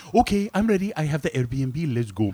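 mock Filipino-sounding accent. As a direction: put on a rough Filipino-style accent. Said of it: "Why does he sound Filipino?".

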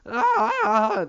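high, loud mock-panic shriek; loud high mock hysteria; panicked internet people. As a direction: shriek about aliens like a hysterical crowd. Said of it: "that's how everybody on the internet sounds".

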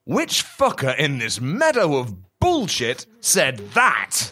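slow, emphatic indignation; mock outrage. Boxer challenges the hidden heckler, slow mock outrage. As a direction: spell out the outrage slowly, word by word. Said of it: "screamed Muhammad Ali".

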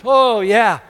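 mild mock whine about the desert; mock grumbling Israelites. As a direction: lightly mimic grumblers pining for Egypt. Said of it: "romanticized how great it was back in Egypt".

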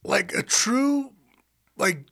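slow, high melodramatic drawl; dramatic R and B. Retold or imitated. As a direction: croon it like a nineties ballad. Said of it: "mimics an R and B video".

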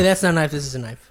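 put-on Australian accent.

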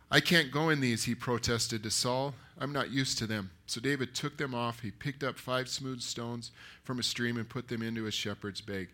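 measured, firmly projected story reading; scripture narration. A narrator's reading. Preacher reading David's answer to Saul, steady narration. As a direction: read the Bible story out to a congregation. Reads the Bible story aloud.

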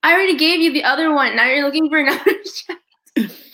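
a hint of the amused fitter; amused shop owner. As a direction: tease him with a laugh in the voice. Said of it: "And he's like".

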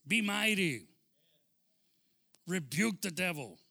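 rousing, forceful exhortation; God's command. Acted. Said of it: "He says". (mandato divino, firme y enérgico)

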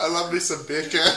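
laughing mock-Jamaican bacon; light-hearted Jamaican accent. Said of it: "I've just said bacon in Jamaican".

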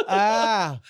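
imitated high cry of alarm; startled yell. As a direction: cry out as if grabbed from behind. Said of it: "like this".

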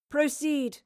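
a hint of a small, commanding queen; the Queen commanding the play to begin; small but powerful. A narrator's reading. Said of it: "in a small but powerful voice".

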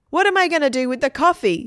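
high, loud worried wail; dismayed. A narrator's reading. Margaret to Stephen about cold coffee, dismayed question. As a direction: fret aloud over the problem.

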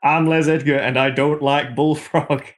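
lightly put-on northern English accent; slow down into a mock northern accent; Les Edgar. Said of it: "horribly given him a northern accent".

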